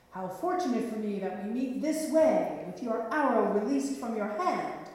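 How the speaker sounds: a strong knight's loud, confident greeting; booming knight. Acted. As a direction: boom it out like a mighty knight. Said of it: "boomed the voice of a strong and mighty knight".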